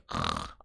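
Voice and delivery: short low snore noise; low rasping snore, briefly demonstrated; mild snore imitation. Shown as a demonstration. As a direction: imitate an ordinary little snore. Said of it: "I'm not talking like".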